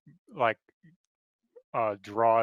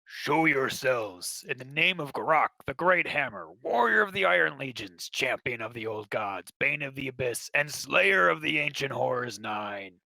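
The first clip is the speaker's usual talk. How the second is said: boastful warrior; 3 semitones higher than usual. Acted.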